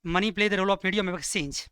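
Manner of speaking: slow, spaced words for note-taking; teacher dictating at writing speed; slow dictation. Shown as a demonstration. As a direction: dictate each word slowly. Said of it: "इसके अंदर ही लिखो".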